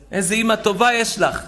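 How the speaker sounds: mock fawning. Mocking mother-in-law's sweet hosting.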